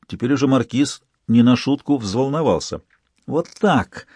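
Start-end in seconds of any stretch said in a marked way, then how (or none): 3.3-4.1 gloating hiss. A narrator's reading. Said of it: "злорадно прошипела Лола".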